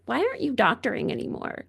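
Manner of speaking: quick imitation of a questioning mother; mom's voice. Hearing mom ask about doctoring, lightly imitated mom's voice. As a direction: lightly put on a mom's voice, hurried. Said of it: "it's like my mom's voice".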